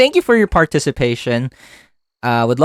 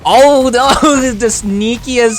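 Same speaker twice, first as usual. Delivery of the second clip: laughing; 10 semitones higher, 4 dB louder, much slower than usual. Real, not acted. Sneaky play in a match.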